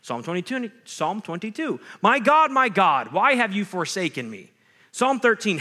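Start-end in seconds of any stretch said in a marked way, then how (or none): 2.0-4.5 crying out to God. Shown as a demonstration. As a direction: cry the psalm's lament out loud. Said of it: "teaches us to yell at God".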